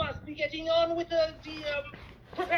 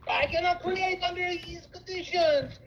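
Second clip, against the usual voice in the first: put-on French accent. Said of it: "French accent".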